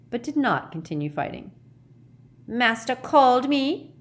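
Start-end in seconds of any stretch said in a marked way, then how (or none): 2.5-3.9 high, slow elf croak; croaking house-elf. Acted. Kreacher bowing resentfully to Harry, croaking. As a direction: croak it out slowly and loudly. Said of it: "croaked Kreacher".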